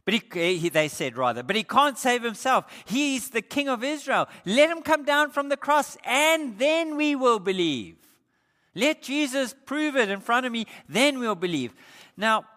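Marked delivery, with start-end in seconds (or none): 1.4-11.8 high, loud jeering taunt; mocking crowd. Crowd at the cross taunting Jesus, loud high mockery. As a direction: sneer at the man on the cross. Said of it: "they mocked".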